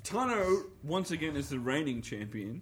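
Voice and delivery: announcer. Pretend. Mock announcer crowning the champion.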